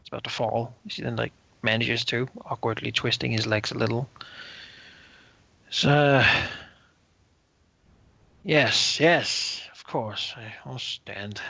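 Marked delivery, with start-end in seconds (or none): 5.7-11.4 halting tipsy noble, fading away; drunken lord. Acted. Drunken lord struggles to stand before the envoy, halting and fading.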